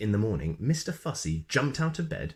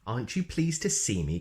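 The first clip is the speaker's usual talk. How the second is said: cheerfully; 3 semitones higher than usual. Acted. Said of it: "continued Mister Clumsy cheerfully".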